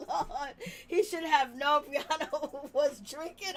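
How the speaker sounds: laughing. Real, not acted. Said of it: "I'm like".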